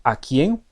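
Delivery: quién with gentle rise; pretonema demo. Shown as a demonstration. Teacher repeats pretonema, rising quién. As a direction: lift quién lightly upward.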